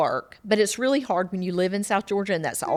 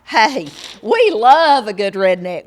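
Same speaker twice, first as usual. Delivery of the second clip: louder, emphatic repeat; emphatic louder restatement; 3 semitones higher, 9 dB louder than usual. Real, not acted. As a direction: say it again, louder, to drive it home.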